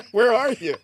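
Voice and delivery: high, fast, worried mom questions; mom's alarmed voice. Retold or imitated. Son calls mom about police, she asks alarmed. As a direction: play the startled mother on the phone. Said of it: "She's like".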